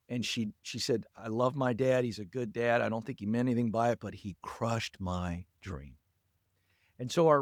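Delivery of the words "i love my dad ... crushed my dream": lightly sad, lowered voice, no real crying; retold tearful. Caller retells a crushed dream, understated sadness. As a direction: retell her hurt, low and slowing at the end. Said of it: "And she began to cry".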